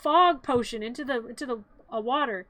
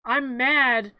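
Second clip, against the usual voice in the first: mock anger; 6 dB louder than usual. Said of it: "And then Santa's like".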